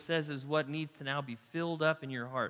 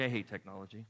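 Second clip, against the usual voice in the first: "I hate technology" dropped lower and softer; grumbling hate; 6 semitones lower, 6 dB quieter than usual. Shown as a demonstration. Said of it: "love/hate contrast".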